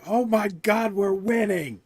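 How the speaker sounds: high-pitched imitation of an off-camera screamer; mock excited scream. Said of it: "he was always a screamer like that".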